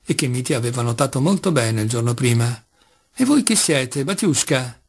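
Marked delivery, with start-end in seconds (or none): 3.1-4.8 changed tone. Acted. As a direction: ask it as a startled old woman in the dark. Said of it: "con un tono di voce completamente diverso".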